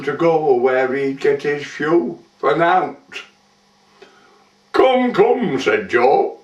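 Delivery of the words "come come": high-pitched placating plea; mildly acted peacemaking; conciliatory. A narrator's reading. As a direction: soothe her with a raised, coaxing pitch. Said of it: "conciliatory-like".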